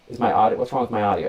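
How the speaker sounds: tinny, boxy mic sound; tin can sound. Real, not acted. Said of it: "You sound like you're in a tin can".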